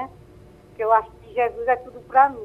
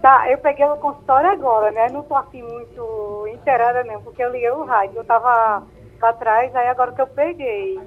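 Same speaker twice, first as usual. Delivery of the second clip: over a landline phone; 4 dB louder than usual. Real, not acted. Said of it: "tá com a gente aqui ao telefone".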